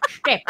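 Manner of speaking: "Step" slurred to shtep; short "Step", mushy shtep sound; mimicked odd pronunciation. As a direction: say "Step" with a sh after the s. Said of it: "I don't know why he does that".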